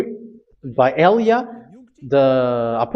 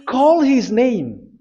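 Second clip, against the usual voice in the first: slow, high, drawn-out command; preached command; 7 semitones higher, much slower than usual. Real, not acted. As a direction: proclaim the scripture order slowly, pitched high. Preacher reads verse as a command.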